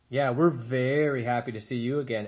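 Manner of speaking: a slightly different bear voice parroting his sister; echoing little brother. A narrator's reading. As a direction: copy her words earnestly, backing her up. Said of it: "echoed the brother bear".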